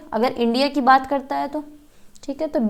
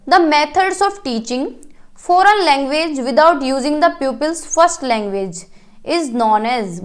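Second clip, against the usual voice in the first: slow question reading; much slower than usual. Acted. Teacher to students, reading an exam question very slowly. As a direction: read the quiz question slowly, word by word.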